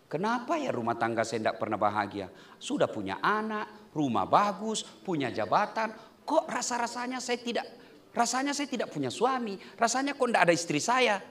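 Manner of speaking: a hint of a sad wife wondering aloud; lightly voiced troubled spouse. Congregant asking the preacher about an unhappy home, softly plaintive.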